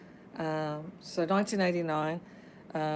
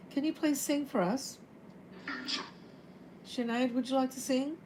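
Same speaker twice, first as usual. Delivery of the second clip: lifted, higher coaxing voice calling out; coaxing call to spirits; 7 semitones higher, 3 dB quieter than usual. Real, not acted. Medium asking the spirits to sing, pitched-up coaxing call.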